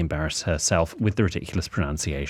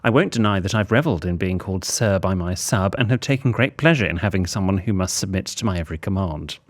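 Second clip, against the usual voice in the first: measured, formal reading with lifted phrase openings; letter read aloud. Acted. Host reads out a confession of vanilla life, letter-reading voice.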